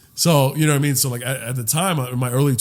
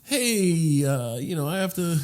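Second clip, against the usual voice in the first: hesitant, softer mock hedging; beating around the bush; 2 semitones higher, 6 dB quieter, slower than usual. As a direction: imitate someone edging awkwardly round a request. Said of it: "have to beat around the bush".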